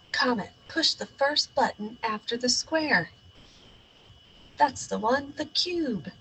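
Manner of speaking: bold captain narrating his mission; heroic space captain. Acted. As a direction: play the brave space hero. Child hero voices adventure.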